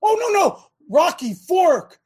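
mock-eager picking of churches, exaggerated oh no no; sarcastic. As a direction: play fake enthusiasm for a joke. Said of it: "You get my sarcasm".

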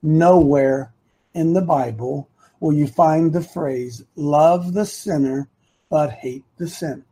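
low and measured, one phrase at a time; deliberate phrasing with a weighty "Nowhere"; simple, deliberate. Shown as a demonstration. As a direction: spell it out simply, pausing between phrases. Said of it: "let me say this really easy".

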